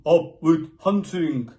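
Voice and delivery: loud, slow rallying shout; slow chanted shout. A narrator's reading. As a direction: bellow it like a war cry. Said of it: "And they shouted".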